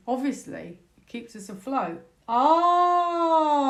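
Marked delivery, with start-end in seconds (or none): 2.3-3.7 sudden realisation. Real, not acted. Suddenly remembers the card.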